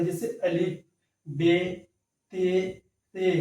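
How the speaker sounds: بے and تے with a long e vowel; Urdu letter names. Shown as a demonstration. Teacher reciting Urdu letter names for students, clear. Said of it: "مجہول پڑھیں".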